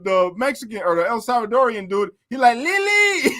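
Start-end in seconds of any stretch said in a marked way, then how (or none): 2.6-3.3 high shout of Lily; yelled name. Retold or imitated. Salvadorian inmate yelling for Lily, high shout. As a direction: bellow her name out the window. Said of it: "yells out the window".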